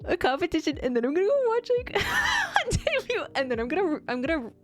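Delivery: excited. Real, not acted. Gushing over upcoming fun events.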